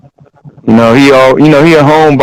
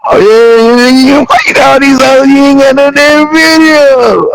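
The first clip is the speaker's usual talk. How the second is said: imitating Mark's outraged shout; 9 semitones higher than usual. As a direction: yell it like a friend amazed and offended. Mark shouting at a rapper's video.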